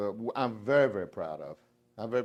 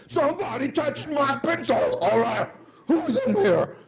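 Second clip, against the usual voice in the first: whiny petty coworker; 14 semitones higher, 7 dB louder than usual. Retold or imitated. Mocks petty coworker's complaint.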